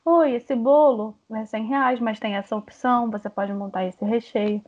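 drawn-out, friendly sales reply; atendimento simpático. Shown as a demonstration. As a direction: open warmly and take time offering options. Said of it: "da forma como eu falo". (atendente simpática, sem pressa)

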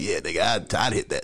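mock dude talk. Imagining guys complimenting each other, mock dude talk. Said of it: "dudes walking around like".

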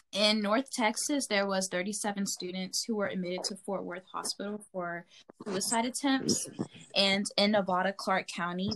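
measured, even news read; news report. Real, not acted. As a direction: report it like a student newscaster. Reads news report to listeners.

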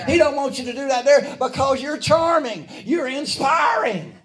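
urgent, rousing pulpit cadence; fervent preaching. Real, not acted. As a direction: preach it up high with rising fervor. Preaches in rising fervor.

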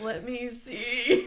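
slow, wincing "Let me see"; wincing, careful. Retold or imitated. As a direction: draw it out like you're bracing to look.

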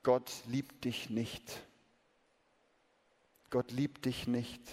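whispered lie. Acted. The lie in every heart, slow soft whisper. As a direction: breathe the lie slowly. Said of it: "flüstert".

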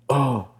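high, short "oh" of dismay; imitated group gasp. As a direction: act out a crowd's shocked reaction. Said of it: "and they all go".

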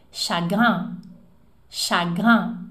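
chagrin with a nasal final vowel, no N sound; French chagrin. Shown as a demonstration. Teacher drilling chagrin for the class. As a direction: slowly model chagrin. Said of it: "Um, dois, três e".

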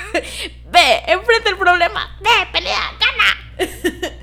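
Edna Moda. Retold or imitated. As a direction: snap her out of it like a fierce fashion mentor. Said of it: "Edna Moda es lindísima".

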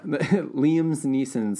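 put-on slow, drawn-out Letterkenny accent. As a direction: stretch it out like in Letterkenny. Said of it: "sound like a character from Letterkenny".

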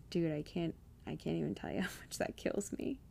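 words barely getting out through tears; near tears. Real, not acted. Hearing what her nephew said, tearful and hushed. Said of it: "I don't wanna cry".

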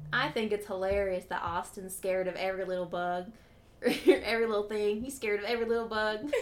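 playful Mississippi accent impression. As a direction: read the fan's words in a mock Mississippi accent. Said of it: "That's my Mississippi accent".

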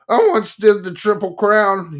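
plain reading voice

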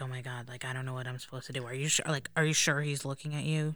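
hushed, embarrassed disbelief at being looked at; flustered self-quote. Retold or imitated. Flustered younger self, retold.

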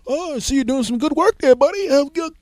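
high, loud gushing mock flirt; mock an over-eager friend sucking up. Friend gushing while flirting with mechanic.

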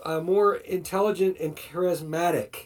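a hint of gloating villain; smug, lightly sinister persuasion; sneering gloating dark voice. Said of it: "the evil lich voice".

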